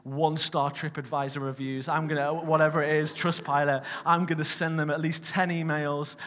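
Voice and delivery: mock furious ranting; retold anger. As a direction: replay the fuming threats with a grin. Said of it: "I was angry".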